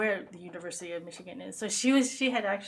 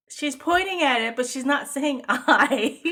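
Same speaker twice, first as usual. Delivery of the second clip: put-on puzzled child; 6 semitones higher, 11 dB louder than usual. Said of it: "you were like".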